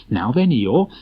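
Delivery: brisk chairman Rabbit. Acted. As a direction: call the meeting to order. Rabbit urges Eeyore.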